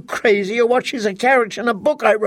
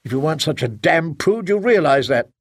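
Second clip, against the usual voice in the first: heated defense; 4 semitones higher than usual. Acted. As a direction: argue back, exasperated. Husband defends book, insults wife.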